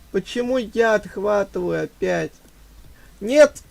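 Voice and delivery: frustrated gamer yelling; raging gamer. Real, not acted. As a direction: rage at losing again. Getting beaten again.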